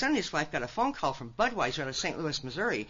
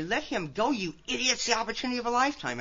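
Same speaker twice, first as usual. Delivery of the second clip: mock shriek; 6 semitones higher than usual. Grandmother imagining what she'd shriek at her son, mock shriek. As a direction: imitate a shriek without raising the volume. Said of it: "I wanted to shriek at him".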